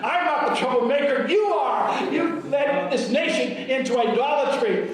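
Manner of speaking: bold, forceful challenge, voice lifting on the accusation; preacher acting out a defiant prophet. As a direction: throw down a confident challenge. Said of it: "Elijah's boldly said".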